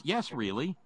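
emphatic, matter-of-fact confirmation; confirming answer. Retold or imitated. Answering own disbelief at the story, confirming. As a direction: answer the disbelief with a firm yes. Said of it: "the answer is".

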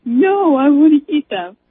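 lightly voiced stubborn child; stubborn kid. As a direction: imitate a child digging in. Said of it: "I was so stubborn as a kid".

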